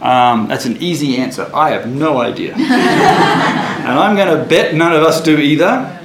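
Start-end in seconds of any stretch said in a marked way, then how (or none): 2.6-3.8 high breathy laugh at his own joke; burst of laughter. Real, not acted. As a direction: laugh it off, amused.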